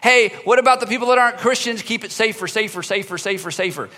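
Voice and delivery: mock opposing faction. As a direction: nag for a safer church. Other group demanding safer church.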